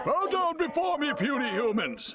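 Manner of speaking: booming monster threat; dragon voice. Acted. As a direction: loom over them like a dragon. Monster menacing puny humans.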